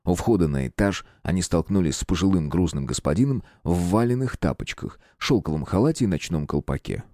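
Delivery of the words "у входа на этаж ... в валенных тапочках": plain reading voice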